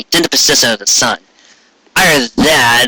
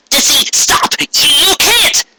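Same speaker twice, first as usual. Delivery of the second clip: high, strained urgent plea; Trixie pleading. A narrator's reading. Trixie holding Dizzy down, high pleading cry. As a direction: beg her to stop while holding her down. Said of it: "Trixie cried as he held the Pegasus down".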